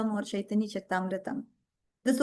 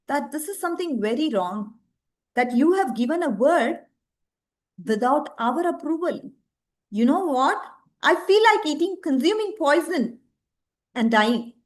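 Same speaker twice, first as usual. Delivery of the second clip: mildly raised voice of a protesting wife; lightly acted outrage, peaking then dropping; mock upset shouting; 3 semitones higher than usual. Wife objects to older Brahmana's promise, mildly acted shouting. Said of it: "she starts shouting".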